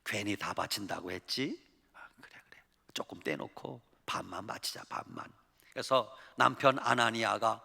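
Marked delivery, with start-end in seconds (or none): 0.0-1.6 whispering to husband. Acted. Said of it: "부부가 속닥거립니다". 1.9-5.3 secretive whispered plotting; whispering. Acted. Husband whispering to his wife about keeping half. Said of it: "부부가 속닥거립니다".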